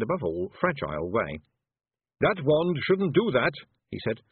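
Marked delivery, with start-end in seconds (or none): 2.2-3.5 anxious shopkeeper. Acted. Zack Zack protests.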